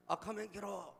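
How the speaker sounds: mock sparrow calling out, falling at the end; dialect warning. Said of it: "문경세제 참새가 알려준 거야".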